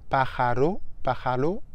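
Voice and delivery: pájaro with the r softened toward an L; easy variant. Shown as a demonstration. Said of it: "remplacer le R par un L".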